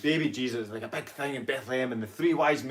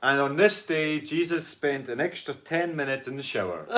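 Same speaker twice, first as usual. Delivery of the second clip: mock scripture reading; 3 semitones higher than usual. Mock scripture read-out for a joke.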